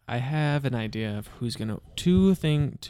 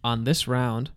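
ring announcer; 3 dB louder than usual. Pretend.

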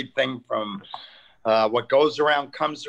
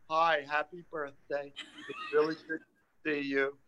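soft, cheesy greeting; record a sugary Cameo; 6 dB quieter than usual. Pretend. Mock Cameo video message.

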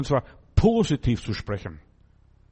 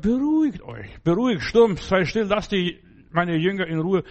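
commanding rebuke; 4 semitones higher than usual. Acted. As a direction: silence the storm with authority. Jesus rebukes the storm.

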